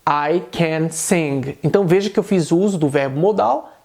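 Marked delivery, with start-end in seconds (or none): 0.1-1.6 slow, evenly spaced "I can sing"; affirmative statement. Shown as a demonstration. Teacher repeats the example for students, as a slow statement.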